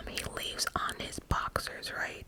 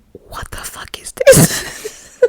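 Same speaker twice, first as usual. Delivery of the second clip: slow, loud shocked whisper-shout; loud startled whisper, dragged out; blurted out loud; 4 semitones higher, 20 dB louder, much slower than usual. Retold or imitated. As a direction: blurt it out in disbelief. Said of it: "I said it out loud".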